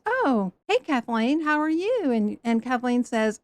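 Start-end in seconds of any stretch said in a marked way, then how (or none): 0.0-2.1 bright church greeting. Retold or imitated. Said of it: "somebody says".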